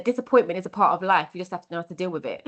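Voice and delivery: quick, lightly voiced foster dad; quoting foster dad. Foster dad giving her life advice, quick light imitation. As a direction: rattle off his advice briskly, a hint of dad. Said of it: "he said".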